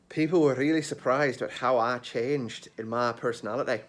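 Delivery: Scottish accent drifting into Irish; wobbly Irish-sounding accent; put-on accent slipping Irish. Shown as a demonstration. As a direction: slip from Scottish into an Irish lilt. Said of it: "I'm going Irish again".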